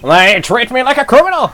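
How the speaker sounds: indignant rant. Acted. Witness ranting in court.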